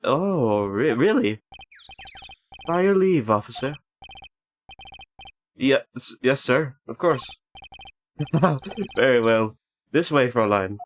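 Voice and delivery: lightly voiced game prosecutor; put-on character voice. Gamer voicing the prosecutor answering an officer, lightly put-on voice. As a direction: give him a slight character voice. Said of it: "I'll just put on, like, a voice for him".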